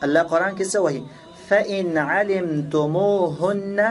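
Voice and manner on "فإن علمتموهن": very slow, drawn-out Arabic recitation; Quran recitation. Shown as a demonstration. Teacher quoting the Quran to students, slow recitation. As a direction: recite it slowly, stretching the long vowels.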